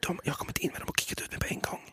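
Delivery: hushed, breath-only reply; whisper. Pretend. Telling of being kicked out of whisper room, whispering. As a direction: whisper along with the bit.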